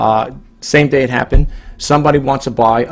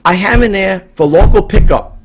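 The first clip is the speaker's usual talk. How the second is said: higher, louder, exasperated protest; 7 semitones higher, 5 dB louder than usual. Real, not acted. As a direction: complain in disbelief at the buyer. Venting at a distant buyer.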